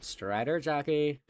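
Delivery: high, slow mock announcement; movie catchphrase callout. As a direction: draw it out like a film catchphrase. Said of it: "I say a Minecraft movie thing".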